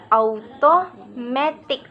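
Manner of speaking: "automatic" slowly, main stress on "ma"; slow teacher's "automatic", leaning on "ma"; third-syllable stress. Shown as a demonstration. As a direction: demonstrate "automatic" beat by beat, secondary stress first, primary on the third syllable. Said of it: "and primary stress on the third".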